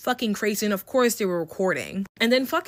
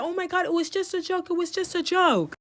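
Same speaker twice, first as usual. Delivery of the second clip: mocking dismissive girl; 10 semitones higher than usual. Imitating the girls dismissing it.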